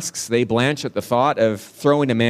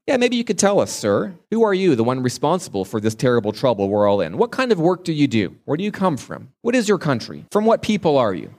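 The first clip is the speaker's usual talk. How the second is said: anxious sailors; 3 semitones higher, faster than usual. Retold or imitated. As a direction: fire questions at the stranger, worried. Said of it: "the sailors ask him".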